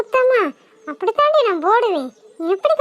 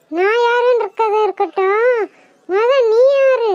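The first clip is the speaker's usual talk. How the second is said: loom over her as the ghost. Acted. Ghost interrogating the frightened woman, slow and looming.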